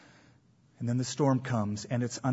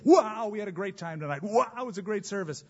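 higher, quick gushing praise; gushing churchgoer; 5 semitones higher than usual. Retold or imitated. Preacher mocking the churchgoer gushing after the service. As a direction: bubble over like you just left church. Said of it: "It's great to go".

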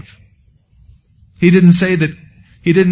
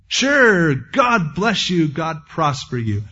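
mock sweet talk; much slower than usual. Priest telling visitors what they wanted to hear, mock sweet talk. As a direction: hand out a glib, stretched blessing. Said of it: "giving off a bunch of sweet talk".

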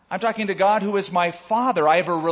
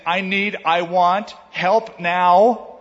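needy prayer; 5 dB louder, much slower than usual. Pretend. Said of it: "We might begin saying".

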